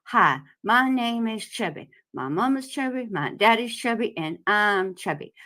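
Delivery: talking with cheeks squeezed together; squished cheeks. Pretend. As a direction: squish your cheeks and talk. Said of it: "you squeeze your cheeks together and you say this".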